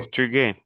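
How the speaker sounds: "portugués" with no S sound at the end; without the final S. Shown as a demonstration. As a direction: say "portugués" the French way, silent final S. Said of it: "sin la S". ("portugués" sin pronunciar la S final)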